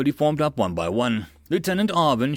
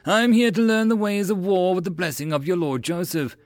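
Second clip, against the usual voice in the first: proudly; 8 semitones higher, 3 dB louder than usual. A narrator's reading. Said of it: "Gavin proudly stated his lineage".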